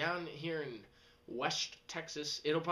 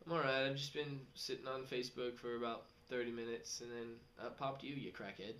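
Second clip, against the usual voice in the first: deadpan reply; 3 semitones lower, 5 dB quieter than usual. Retold or imitated. Deadpan inner reply to chatter.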